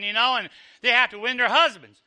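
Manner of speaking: ordinary delivery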